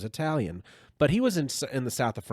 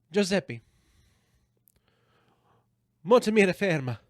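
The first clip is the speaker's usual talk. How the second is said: imitated diner calling out, higher pitched; hungry diner; 6 semitones higher, 6 dB louder than usual. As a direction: plead in mock Italian to the restaurant owner. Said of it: "I'm talking to him, and I say".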